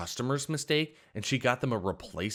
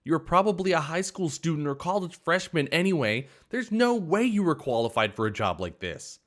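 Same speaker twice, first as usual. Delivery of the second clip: much higher and louder, sneering; waitress yelling after throwing water; shrill rant; 7 semitones higher, 4 dB louder than usual. A narrator's reading. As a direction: shout blame at the customer and the boss.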